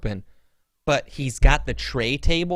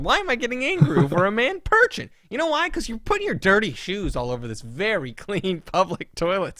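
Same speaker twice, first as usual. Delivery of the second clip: worked-up, high-pitched indignation; comic outrage, voice climbing high; angry; 5 semitones higher than usual. Real, not acted. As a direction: rant in exasperated disbelief. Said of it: "it makes me angry".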